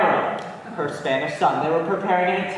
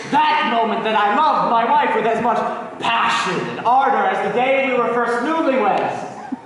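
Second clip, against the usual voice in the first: passionate declaration; 4 semitones higher than usual. Acted. Declares passion for his wife.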